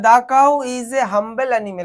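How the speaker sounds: slow dictation of an answer. Shown as a demonstration. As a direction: dictate the full sentence slowly. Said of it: "teacher dictating sentence".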